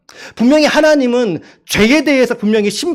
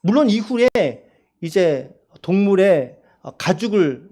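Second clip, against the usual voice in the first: ordinary talk, nothing marked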